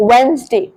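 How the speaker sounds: Wednesday said 'वेन्ज़डे'; n before z in Wednesday; model Wednesday. Shown as a demonstration. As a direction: clean Wednesday. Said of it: "So you will pronounce it as".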